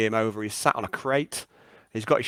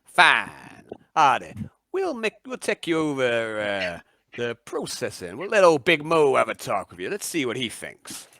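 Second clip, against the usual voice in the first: swamp dweller; 3 dB louder than usual. Acted. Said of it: "And he goes".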